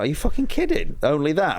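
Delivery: high, incredulous retort; can't believe your luck, pitch jumping up; retold incredulity. Comedian replaying his reaction to a producer's fee, incredulous.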